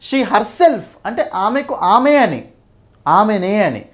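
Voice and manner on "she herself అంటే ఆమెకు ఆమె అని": "herself" leaned on, drawn out slowly; slow down and press on "herself" and "ఆమె"; stress on herself. Shown as a demonstration. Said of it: "stress చేస్తది అనమాట". ("herself", "ఆమె" పదాలను నొక్కి, నెమ్మదిగా పలకడం)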